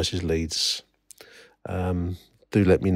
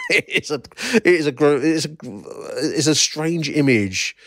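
higher voice, breaking up with laughter; laughing; 7 semitones higher than usual. Real, not acted. Podcaster describing a daft old photo to listeners, laughing. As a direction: struggle to describe it through giggles.

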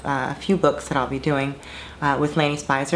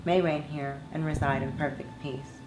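measured, earnest read of a personal essay; composed monologue reading; 5 dB quieter than usual. Acted. Former performer reading her reflections on dating to fans, composed monologue. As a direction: read it as a composed confession, evenly and deliberately. Reads own written monologue over music.

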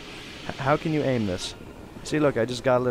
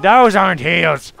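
loud, slow, higher objection; exasperated protest; 6 semitones higher, 11 dB louder, slower than usual. Pretend. Player arguing with Mindy over shoes, exasperated yell. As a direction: raise your voice in disbelief.

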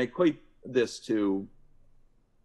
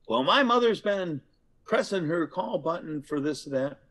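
upset relative; 6 semitones higher than usual. Acted. Voicing angry visitor.

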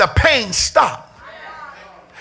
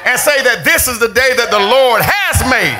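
building, emphatic preacher's exhortation; preaching. Real, not acted. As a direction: drive the praise home, stretching key words.

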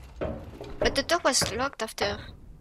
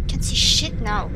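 loud, exasperated complaint; loud frustrated outburst; 7 dB louder than usual. Real, not acted. Sudden darkness in a horror game.

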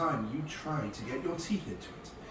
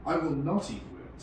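louder, higher protest; defiant refusal; 5 semitones higher, 6 dB louder than usual. A narrator's reading. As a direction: refuse firmly as a storybook child. Child refusing worms.

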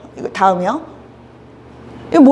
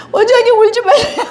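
higher, lightly laughing reassurance; comforting nurse; 7 semitones higher, 4 dB louder than usual. Retold or imitated. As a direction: soothe your boss gently. Young nurse comforting her boss.

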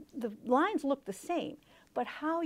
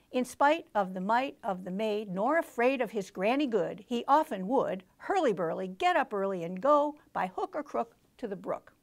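stopping at each line end; 4 dB louder than usual. Shown as a demonstration. Teacher showing a line-by-line reading of the poem, clipped at each line. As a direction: pause at the end of every line, choppy. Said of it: "I really stopped at the end of each line".

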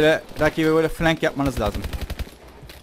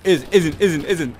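excited cheering; 4 semitones higher, 6 dB louder than usual. Real, not acted. Cheering to run over.

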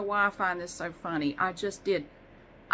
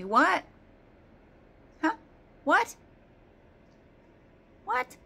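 rising mock meow of a question; squeaky mock cat complaint; imitating the cat's yell; 9 semitones higher, 3 dB louder, slower than usual. Mocking the cat Pumpkin yelling back, rising what. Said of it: "Pumpkin's yelling at me".

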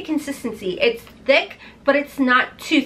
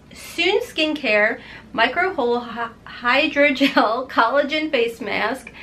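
talking through swollen lips. Real, not acted. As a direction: lips puffy from filler, slightly slurred. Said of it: "my lips are still swollen, so I feel like I'm talking funny".

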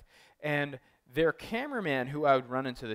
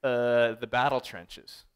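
put-on Brooklyn accent; 5 dB louder than usual. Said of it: "a Brooklyn accent".

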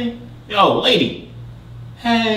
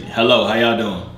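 robotic echo voice. Real, not acted. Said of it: "sounds like a robot".

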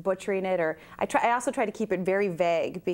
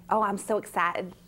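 Cockney-Texas accent. Shown as a demonstration. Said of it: "now I just went Cockney, Texas".

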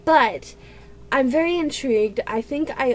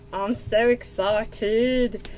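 slow excitement; much slower than usual. Real, not acted.

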